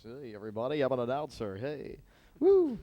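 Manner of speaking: mock smooth radio announcer; suave announcer. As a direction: lay on the smooth announcer charm. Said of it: "You gotta talk so suave".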